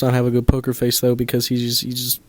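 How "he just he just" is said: stutter. Real, not acted. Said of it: "did you just hear that stutter".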